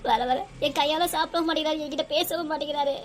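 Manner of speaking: acted sobbing lament; crying as she pleads for sympathy; tearful complaint. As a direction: complain through tears. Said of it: "அழாதம்மா".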